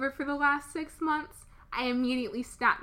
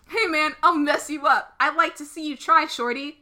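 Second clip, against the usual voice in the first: a touch louder, threatening rival; mild tough guy; 4 dB louder than usual. Acted. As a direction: square up to him, lightly. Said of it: "It's just back and forth".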